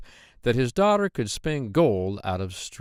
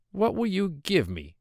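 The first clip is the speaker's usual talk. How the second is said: higher, squeaky voice of a hobbling little man; droll little man; 9 semitones higher than usual. Acted. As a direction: pitch him up high and sly. Dwarf bargains with maiden.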